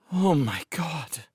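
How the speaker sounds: high, slow shocked gasp. Acted. Kent gasps at the sight of the ants. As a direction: gasp it out, aghast. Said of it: "Kent gasped".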